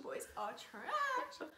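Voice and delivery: very high, slow, crying wail; mock wail. Mock wail repeating title.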